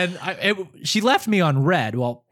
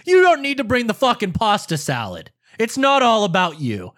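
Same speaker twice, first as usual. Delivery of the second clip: imitated scolding, higher and pushed; retold angry yell; 4 semitones higher, 3 dB louder than usual. Brother rejecting the pasta salad, retold angry yell. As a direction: act out an irritated brother. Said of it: "you called to yell at me".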